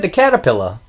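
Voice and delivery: caterpillar ending in "pilla", no R; dropped-R caterpillar. Retold or imitated. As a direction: insist on saying caterpillar as "catapilla". Repeats the mispronunciation insistently.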